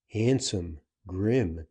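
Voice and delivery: plain reading voice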